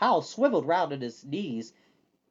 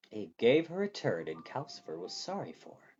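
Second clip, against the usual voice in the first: incredulous repeat; 4 semitones lower, 6 dB quieter than usual. A narrator's reading. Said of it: "Hal repeated".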